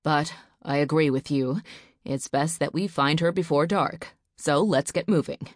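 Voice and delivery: steady, reassuring father; forced calm. Acted. Husband reassuring his frightened wife, forced calm. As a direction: keep your voice calm for her sake. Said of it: "tried to sound calm".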